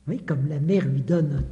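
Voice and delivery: ordinary talk, nothing marked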